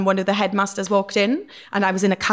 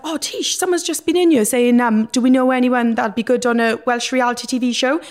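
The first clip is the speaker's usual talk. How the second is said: excited friend; 4 semitones higher, 4 dB louder than usual. Retold or imitated. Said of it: "my friend was like".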